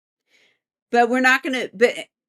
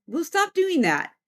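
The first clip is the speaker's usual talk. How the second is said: higher-pitched mock scolding; scolding spirit; 6 semitones higher than usual. Unseen being scolds its prankster friend, high mock scolding. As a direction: play the fed-up companion. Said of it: "I hear them talking telepathically".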